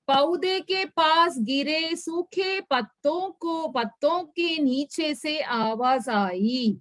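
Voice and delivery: reads each Hindi word slowly for the class; slow, careful reading aloud; slow story reading. A narrator's reading. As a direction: spell the story out for learners.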